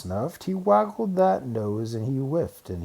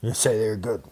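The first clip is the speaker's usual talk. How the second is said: sneer; 4 dB louder than usual. Acted. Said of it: "said the bear with a sneer".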